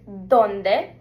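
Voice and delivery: ¿dónde? said DON-deh, stress on the first syllable; Spanish pronunciation. Shown as a demonstration. Teacher modeling ¿dónde? for learners, clearly. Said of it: "pronunciation is".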